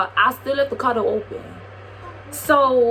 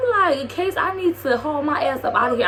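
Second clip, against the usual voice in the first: faster, higher first take; quoted line; 4 semitones higher, faster than usual. Retold or imitated. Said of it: "I dead ass said that".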